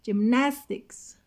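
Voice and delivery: "gymnastics" slow, with the second syllable NAS hit hard; exaggerated stress. Shown as a demonstration. Teacher showing class word stress: slow "gymnastics", NAS stressed. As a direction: stretch "gymnastics" out slowly and punch NAS.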